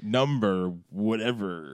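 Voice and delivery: low, drawn-out countdown announcer; slow, low list-show announcer; mock announcer. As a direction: announce it slowly in a deep voice. Announces list numbers in deep voice.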